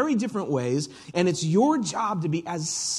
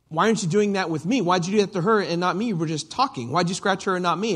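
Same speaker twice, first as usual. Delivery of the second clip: put-on quick, higher and louder child protesting; child's complaint; 4 semitones higher, 4 dB louder, faster than usual. Shasta demanding to know why he was spared, fast and higher. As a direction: push it out fast like a wronged kid. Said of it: "And the implication is".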